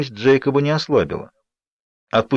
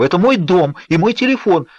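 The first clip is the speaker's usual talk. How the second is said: higher, heated protest; indignant anger; 7 semitones higher, 3 dB louder than usual. A narrator's reading. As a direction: stake your claim, still furious. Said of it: "задыхалась я от гнева". (возмущённо, с гневом)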